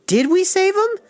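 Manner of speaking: put-on high eager boy's voice; eager boys. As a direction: ask it like a hopeful kid. Boys asking eager question.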